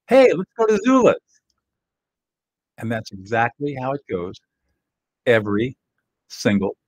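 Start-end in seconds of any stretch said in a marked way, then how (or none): 0.1-1.2 partner role. Acted. Partner voiced in role-play.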